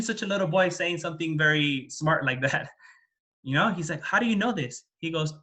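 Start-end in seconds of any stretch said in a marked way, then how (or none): 4.0-4.8 higher-pitched acted puzzlement; astonished question. Storyteller repeating the father's question to the boy, mild astonishment. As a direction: ask it with lightly played amazement.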